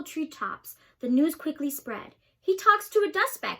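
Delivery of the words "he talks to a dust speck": higher, louder jeer; jeering gossip. A narrator's reading. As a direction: spread the gossip with glee.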